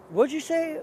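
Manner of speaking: high, loud questioning; baffled. Retold or imitated. Asks him to repeat gibberish.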